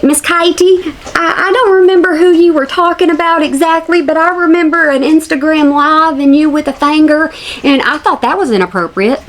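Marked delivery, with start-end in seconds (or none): 0.0-6.5 high mocking voice. Addressing creator in mock voice.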